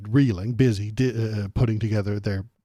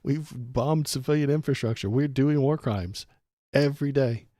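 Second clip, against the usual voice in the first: laughs, then higher and louder in disbelief; incredulous outburst; 4 semitones higher, 4 dB louder than usual. Real, not acted. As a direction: burst out against the lie. Laughing outburst at her claim.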